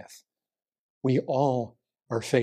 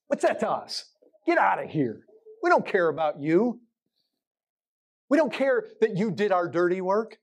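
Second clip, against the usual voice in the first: pitched-up dismissive priests, mildly mocking; scornful priests; 6 semitones higher than usual. Preacher voicing priests brushing off Judas, scornful. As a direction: toss Judas aside with scorn, a touch hammed-up.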